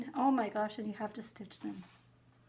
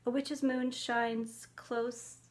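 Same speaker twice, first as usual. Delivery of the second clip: slow careful reading; much slower than usual. Shown as a demonstration. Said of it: "I can't even read that".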